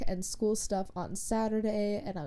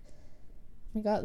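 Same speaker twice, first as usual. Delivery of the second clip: whispered, slow and drawn out; hushed retold oh my God; breathless dismay; 5 dB quieter, much slower than usual. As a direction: breathe it out in despair. Panic coming back.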